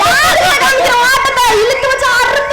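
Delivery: cocky recited threats; memorised scolding. Acted. Child threatens man with comic insults, recited scolding. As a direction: deliver threats like a rehearsed chant. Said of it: "மனப்பாடம் பண்ணி பாட்டு பாடின மாதிரி".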